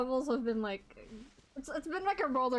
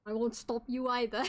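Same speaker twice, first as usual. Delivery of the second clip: mock British accent. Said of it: "I'm gonna keep copying them".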